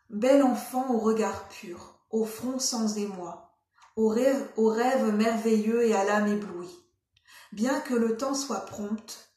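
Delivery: measured, slow poetry recitation; deliberate, spaced-out poem delivery; poem reading. Acted. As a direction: read verse aloud, pausing after each phrase. Reads a poem aloud.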